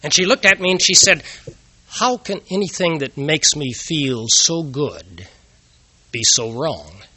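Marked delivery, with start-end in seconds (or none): 1.9-7.0 slow, lightly voiced tipsy wonder; drawn out, half-dazed question; dazed wife. Tipsy wife suddenly pale, pleading.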